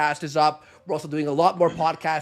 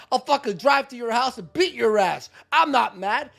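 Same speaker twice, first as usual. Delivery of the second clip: mocking Ethan Ralph; 5 semitones higher than usual. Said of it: "Ethan Ralph".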